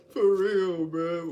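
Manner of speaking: bursting out laughing, loud; loud laughter. Real, not acted. Vlogger laughing loudly at his cat story. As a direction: crack up hard at your own joke.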